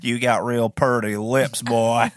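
slow, creepy backwoods drawl; creepy hillbilly voice. Pretend. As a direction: leer it out slowly. Creepy hillbilly actor line.

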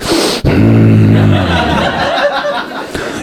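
loud, low creepy breathing; hammed-up long, heavy breaths. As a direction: breathe heavily like a menacing man. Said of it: "just breathing".

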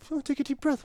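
high-pitched mocking parrot; mocking echo. Patient to stern helper, mocking. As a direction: throw the advice back in a high mock voice.

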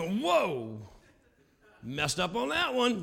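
drawn-out mock "whoa" of a bungling maker; mock dismay. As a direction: play a comic oops at botched handiwork. Voicing a surprised God botching creation.

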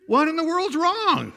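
high, loud, drawn-out holler; mother calling out. Retold or imitated. Mother calling up to her son, alarmed holler. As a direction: yell it slowly from the back door. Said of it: "other voice that started mingling in".

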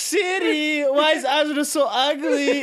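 very high, loud silly question; cousin's funny Siri voice. Retold or imitated. Imitating a cousin teasing through Siri, high and loud silly voice. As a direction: squeal the punchline in a high mock voice. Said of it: "He was the Siri guy".

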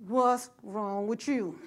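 slow, street-style scolding; lightly done ghetto mom voice; real ghetto. Retold or imitated. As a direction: drawl it out like a tough street mom. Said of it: "This how I was talking, real ghetto".

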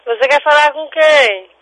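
real irritation. Real, not acted. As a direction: ask it insistently, losing patience. Repeats question to evasive caller.

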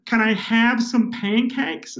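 ordering pancakes in a slow, mock American accent. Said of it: "I realised I had to adjust my voice".

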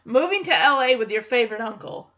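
mock firm echo of the kid's plan; acted dismissive repeat; firm refusal. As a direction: throw the words back as a no. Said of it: "He says, No, you know".

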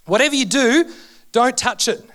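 a hint of a mother warning her child; imitating mum's warning. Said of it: "my mum would say".

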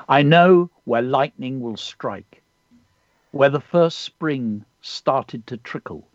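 measured, unhurried recitation with pauses; poem reading. Acted. Poet reading a pupil's poem on air, measured recitation. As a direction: read the poem like an ancient bard speaking. Reads a child's poem aloud.

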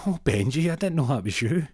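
put-on high, bright old lady greeting; old dear voice. Old lady voiced in comic story.

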